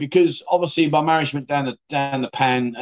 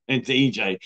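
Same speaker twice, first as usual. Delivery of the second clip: laughing. Real, not acted. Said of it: "why I'm laughing".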